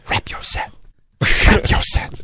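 harsh whisper, no voice. Retold or imitated. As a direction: hiss it like in a reading room. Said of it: "in the middle of a reading room going".

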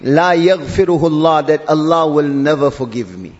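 dropped low, heavy resignation; despairing self-talk. Acted. Sinner telling himself of no forgiveness, low despair. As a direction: sink into hopelessness, pitch well down. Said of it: "he says to himself".

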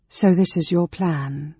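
slow, accusing line with contained anger; a touch of cold anger; restrained anger. A narrator's reading. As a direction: say it slowly, anger held in. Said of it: "unmoved by her anger".

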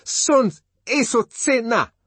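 loud, high, slow shout; Zuni shout. A narrator's reading. The Savage cursing from his room, loud slow shout. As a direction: hurl the curse through the door.

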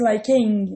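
"likeing" with an extra vowel before the -ing; odd pronunciation. Shown as a demonstration. Teacher shows why it would sound weird, odd pronunciation of "likeing". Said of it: "porque ia ficar bem esquisito".

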